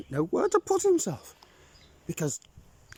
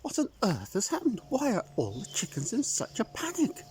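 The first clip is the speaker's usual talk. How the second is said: alarmed call; 9 semitones higher, faster than usual. Acted.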